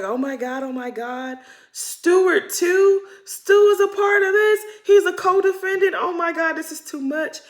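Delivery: high, loud hammed-up shock; shocked cast reaction. The ladies learning Stu is involved, high mock shock. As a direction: squeal it like gossiping women in shock.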